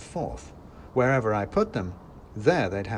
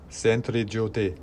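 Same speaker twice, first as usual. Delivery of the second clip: cheerful; slower than usual. A narrator's reading. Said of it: "he said cheerfully".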